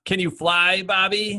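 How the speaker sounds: high-pitched movie quote; imitated villain line. Quoting the villain's famous line, high mock villain. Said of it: "what was the".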